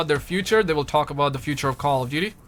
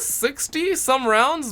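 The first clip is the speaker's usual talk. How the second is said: drawn out; 8 semitones higher, much slower than usual. Pretend. Stretched, put-on voice.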